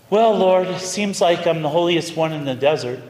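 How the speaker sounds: lightly imitated piety; mock-pious address to heaven. Saint Anthony telling the Lord he is holiest, pious. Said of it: "said in a very pious response".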